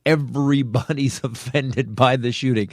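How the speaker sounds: slow right down to drive the point home; measured, emphatic delivery; slow, deliberate emphasis. Real, not acted. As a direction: spell it out word by word. Repeats it slowly to make point.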